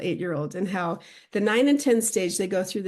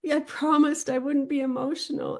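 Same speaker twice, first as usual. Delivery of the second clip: imitating daughter; 6 semitones higher than usual. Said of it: "She goes".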